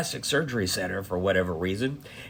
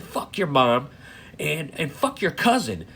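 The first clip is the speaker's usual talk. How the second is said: retold fury. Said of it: "I was furious".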